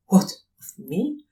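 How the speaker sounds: the student recoils at the idea of himself as holy; amazed. A narrator's reading. Philosopher answers the colonel in startled, slow disbelief. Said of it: "in amazement".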